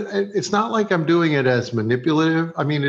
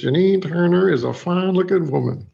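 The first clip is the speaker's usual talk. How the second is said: put-on Southern accent playback; 5 semitones higher than usual. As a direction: replay the line in a mock Southern accent. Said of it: "And then it goes".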